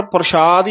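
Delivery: ਪ੍ਰਸ਼ਾਦ with sh in place of s; dotted sassa. Shown as a demonstration. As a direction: wrongly say parshaad in ਪ੍ਰਸ਼ਾਦ. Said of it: "ਕਈ ਸੱਸੇ ਦੇ ਚਰਨਾਂ ਚ". (ਪ੍ਰਸ਼ਾਦ ਵਿੱਚ ਸੱਸੇ ਹੇਠ ਬਿੰਦੀ)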